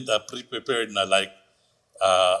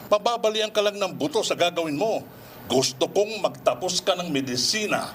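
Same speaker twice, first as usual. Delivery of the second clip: scolding father; 5 semitones higher than usual. Acted. Father scolds daughter over ballet.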